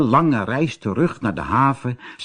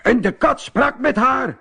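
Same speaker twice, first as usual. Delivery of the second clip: another sailor; 12 semitones higher than usual. A narrator's reading. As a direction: tell it with wonder. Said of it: "zei een ander".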